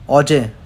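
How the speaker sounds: ओजे said short and clear; Korean word. Shown as a demonstration. Teacher modelling Korean for yesterday, demo. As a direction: model ओजे cleanly for the class. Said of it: "पहले yesterday करते हैं".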